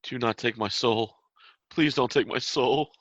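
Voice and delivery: pleading, rising in pitch and force; begging for his soul. Acted. Man begging a captor for his soul, pleading. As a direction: plead for your life, building on the second plea. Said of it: "begging for his soul".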